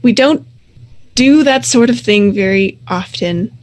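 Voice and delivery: lightly voiced wolf leader, smoothing things over; placating pack leader.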